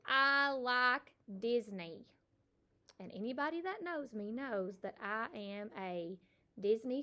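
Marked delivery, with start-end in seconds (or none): 0.1-2.1 slow model sentence. Shown as a demonstration. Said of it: "Or I might say".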